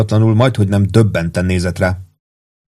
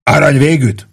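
higher, heated narrated outburst; yelling; 6 semitones higher, 4 dB louder than usual. A narrator's reading. Pete snapping at Warden over a cigarette, yelling. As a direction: throw it out as an indignant yell.

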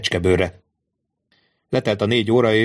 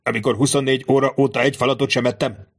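hissing; 4 semitones higher than usual. Acted. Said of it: "sziszegte Danglars".

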